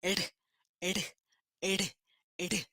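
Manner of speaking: isolated R taps, soft and brief; quick tongue tap. Shown as a demonstration. Teacher showing how the R is produced, quick taps. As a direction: flick R once against the roof of the mouth. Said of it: "Batendo a língua rapidinho no céu da boca".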